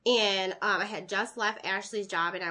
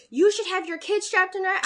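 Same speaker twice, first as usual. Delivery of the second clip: mocking the lady; 9 semitones higher, 6 dB louder than usual. Lady's accusation quoted.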